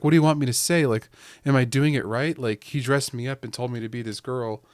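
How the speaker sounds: mock-innocent, fishing for approval; playing dumb. Wife fooling the reporter, lightly voiced fake ditz. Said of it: "And she pretends to be, like, a dumb woman".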